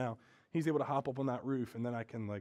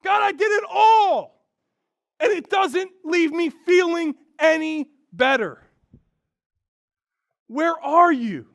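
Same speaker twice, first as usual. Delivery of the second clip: booming gladiator roar, much higher and louder, slow; Russell Crowe impression; 13 semitones higher, 14 dB louder, slower than usual. Preacher screaming at the heavens, a slow, booming gladiator roar. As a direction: bellow it to the heavens like a gladiator in an arena. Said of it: "screaming at the heavens in my best Russell Crowe impression".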